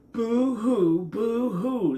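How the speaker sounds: high mocking boo-hoo. A narrator's reading. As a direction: taunt him like a bratty bat. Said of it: "the bat mocked".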